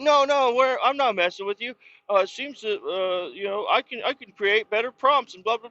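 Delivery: high, chirpy voice for the AI; mock chatbot voice. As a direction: play the bot smugly brushing off the complaint. Voicing ChatGPT replying defensively.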